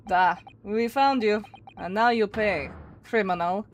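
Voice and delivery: measured, lightly faked Russian accent; amateur attempt at a Russian accent. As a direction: threaten in a homemade Russian accent. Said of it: "Don't mind how bad my accent probably is".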